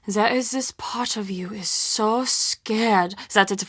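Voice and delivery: confiding fearful whisper; scared whisper. Acted. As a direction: drop to a whisper as if afraid. Confessing fear of the monster.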